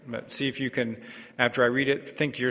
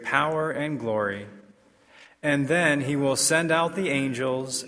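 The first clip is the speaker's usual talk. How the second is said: formal liturgical proclamation; measured, solemn scripture reading; Gospel reading. Acted.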